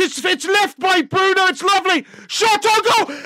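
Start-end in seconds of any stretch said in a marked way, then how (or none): 2.3-3.2 laughing as it hits the net; laughing call. Real, not acted. Fan laughing while calling the shot.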